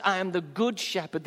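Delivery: "good" given the main weight; stress on good. Shown as a demonstration. Preacher quotes Jesus to the congregation, stress on "good". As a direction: lean on "good", letting shepherd fall away. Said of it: "the emphasis is on good".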